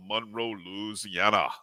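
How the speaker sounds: lightly attempted Louisiana accent. Shown as a demonstration. Host greeting a viewer from Monroe, attempted Louisiana accent. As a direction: try a slight Louisiana accent on the town and state. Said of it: "if that's a good Louisiana accent".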